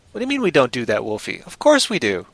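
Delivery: mock-indignant fake British; playful, theatrical British accent. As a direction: put on a hammy British protest. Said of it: "my fake British accent".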